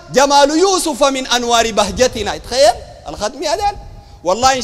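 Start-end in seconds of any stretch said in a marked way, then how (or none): 0.1-2.4 slow, measured poetic recital; verse recitation. Retold or imitated. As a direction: recite it as verse, drawing out the vowels. Quoting Sufi verse to ridicule it.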